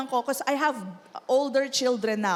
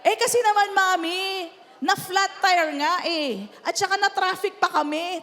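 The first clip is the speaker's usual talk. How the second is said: put-on whiny teenager; 4 semitones higher than usual. Teen voiced explaining to mother.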